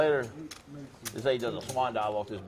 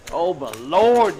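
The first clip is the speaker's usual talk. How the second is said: drawn-out gloat; 3 semitones higher, 8 dB louder, much slower than usual. Real, not acted. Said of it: "gloating over a catch".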